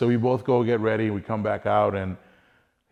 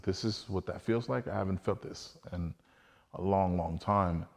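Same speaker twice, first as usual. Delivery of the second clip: hushed awe; 7 dB quieter than usual. Retold or imitated. Awed at inner peace outdoors.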